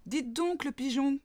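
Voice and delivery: a little mole yelping up at the pigeon. A narrator's reading. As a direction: yelp it up at the bird. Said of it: "glapit-elle".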